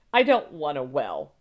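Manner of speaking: a touch of crying, pleading; sobbing. Acted. Wife begs husband to stop the well, mildly tearful. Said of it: "Ma sobbed".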